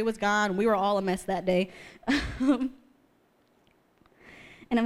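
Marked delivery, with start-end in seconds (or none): 2.1-2.7 amused laugh. Real, not acted. Laughs recalling the messy day.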